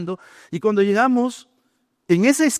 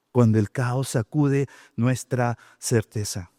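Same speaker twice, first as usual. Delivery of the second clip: slow emphasis; 6 semitones lower, 4 dB quieter, slower than usual. Acted. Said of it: "el segundo punto que yo puse es".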